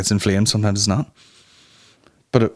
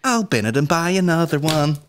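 laughing mock confession; 7 semitones higher than usual. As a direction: giggle through the confession. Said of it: "and then I go".

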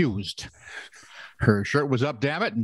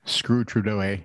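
put-on Canadian accent. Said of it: "If I could speak with a Canadian accent".

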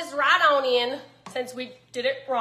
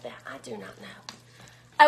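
very low, breathy whisper to herself; low whispered shrug; muttered aside; 5 dB quieter, slower than usual. Real, not acted. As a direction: drop it under your breath.

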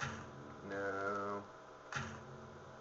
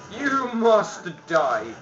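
high, drawn-out threat; battle cry; 4 semitones higher, 4 dB louder, much slower than usual. Pretend. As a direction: stretch it out like a playful battle cry. Player yells at enemy.

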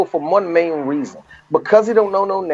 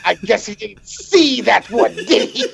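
wry joke to wife, lightly done. Retold or imitated. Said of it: "I looked at my wife".

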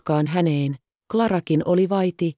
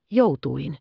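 urgent, hurried butler call; 2 semitones lower, much slower than usual. A narrator's reading. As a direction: hurry her in, calling out. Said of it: "huusi hän kiirehtäen". (kiirehtivä huuto)

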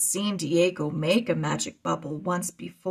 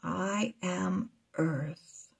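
voice in his head; 7 dB quieter, much slower than usual. Acted. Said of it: "Worm's voice in his head".

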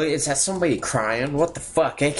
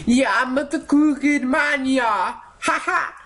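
crooked man; 12 semitones higher than usual. Pretend.

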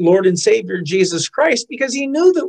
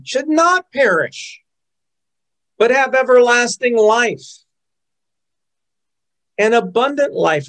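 confident rebuttal, raised pitch; bold reply. Retold or imitated. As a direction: declare it back with conviction. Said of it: "I say".

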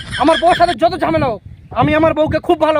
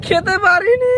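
hammed-up sob on the end; tearful whining; 2 semitones higher than usual. Husband who could not eat, tearful whining. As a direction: let it dissolve into crying. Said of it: "আর কাঁদিস না ভাই".

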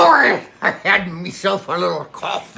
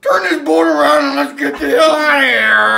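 urgent captain's order; 9 semitones higher, 6 dB louder than usual. Acted. Captain orders escape from monsters.

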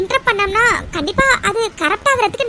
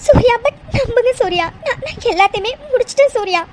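tearful pleading. Acted. Mitra begs Surya to believe her, sobbing. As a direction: beg through sobs.

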